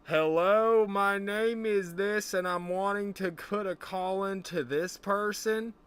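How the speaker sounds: hammed-up grandpa placing a call, every word spelled out; old man on the phone. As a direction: play the grandpa shouting carefully into an old phone. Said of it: "enunciate real well through the phone for you".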